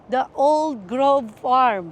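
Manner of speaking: put-on "The Old Grove Farm" said very slowly, each word spelled out clearly; slow right down to get "The Old Grove Farm" out cleanly; careful slow retry. Shown as a demonstration. Vlogger retrying the farm's name after tripping over it, slow and careful. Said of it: "Bulol kasi ako".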